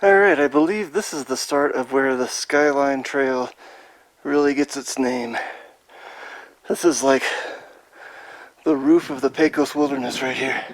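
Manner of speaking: winded from the climb; out of breath; heavy breathing. Real, not acted. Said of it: "Sorry about the heavy breathing".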